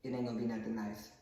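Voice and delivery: low, soft, quick comeback; subdued retort. Acted. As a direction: say the threat back under your voice. Son's low retort after mother's threat.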